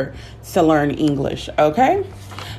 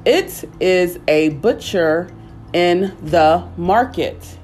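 slow dictation; slower than usual. Shown as a demonstration. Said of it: "slow model sentence".

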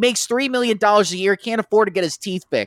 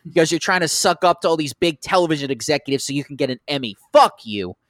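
mock angry rant. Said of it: "It's like".

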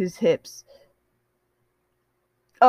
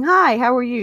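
cheery greeting; 5 semitones higher, 4 dB louder than usual. Shown as a demonstration. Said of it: "instead of saying".

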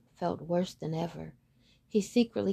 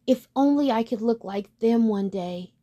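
admiringly; 3 semitones higher, 5 dB louder than usual. Acted. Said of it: "said the duckling admiringly".

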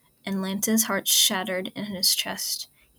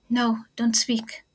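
gentle hush; slower than usual. Acted. Tender to injured friend.

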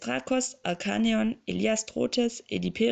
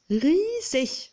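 loud, high exclaim; 9 semitones higher, 6 dB louder than usual. Acted. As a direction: belt out a high, loud "Riesig". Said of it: "Das erwähnte ich bereits".

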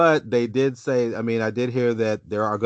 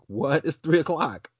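surprised; 5 semitones higher, slower than usual. Retold or imitated. Woken at 3am, sees drop tweet.

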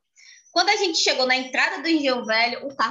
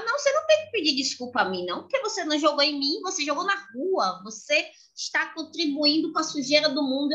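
put-on quick, raised little girl lecture; lecturing child; 5 semitones higher than usual. Daughter lecturing the litterer, quick and raised. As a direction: rattle off the lesson like a righteous kid.

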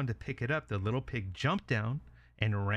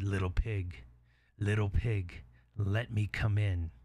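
measured, slowing wolf voice; wolf at the door; 2 semitones lower, slower than usual. Acted. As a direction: coax the pig, drawing out the last words.

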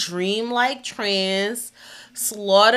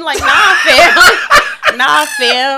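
loud laughing shout; 5 semitones higher, 9 dB louder, slower than usual. Retold or imitated. Mocking the mountain hiding villain.

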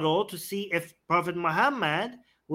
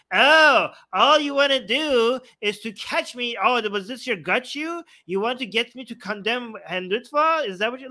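a light, higher mocking take on the other debater; mock imitation; 4 semitones higher, 3 dB louder than usual. Debater mimicking his opponent's defensive reply, mildly mocking. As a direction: play him as huffy and defensive, a touch higher. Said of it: "you make me sound very soft and very meh".

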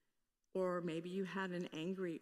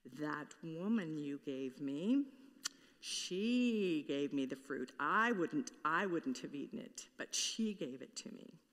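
excuse-making; 3 semitones lower than usual. Retold or imitated. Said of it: "That's what Adam did".

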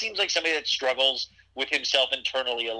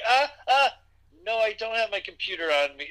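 high-pitched mock fangirl gasps; flustered fan; 7 semitones higher than usual. Fan answering Justin's odd phone request, mock flustered. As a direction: imitate an overwhelmed fan, pitched up.

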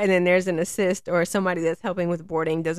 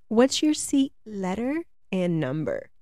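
slow clear question. Retold or imitated. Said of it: "I learned just to be like".

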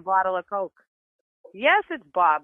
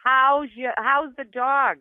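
slow, raised voice for someone hard of hearing; drawn-out, higher-pitched repeat; speaking up; 5 semitones higher, slower than usual. Real, not acted. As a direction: repeat it higher and slower to be heard. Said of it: "can you speak a little louder".

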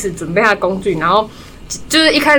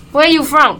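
imitating the hairdresser; 6 semitones higher, slower than usual. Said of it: "她就说".

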